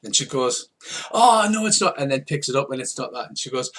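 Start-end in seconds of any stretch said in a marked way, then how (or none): 1.1-2.0 higher, louder fake shock; mock flustered surprise. Hustler caught out by Mouser, hammed-up panicked surprise. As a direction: ham up her alarm.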